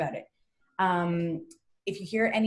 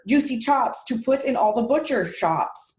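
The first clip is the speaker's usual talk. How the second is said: higher, louder, emphatic character reading; indignant storybook pig; 4 semitones higher, 4 dB louder than usual. Acted. Pig realises what the farmer wants of him, indignant outcry. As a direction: declaim the pig's complaint, loudly. Voices the pig's speech.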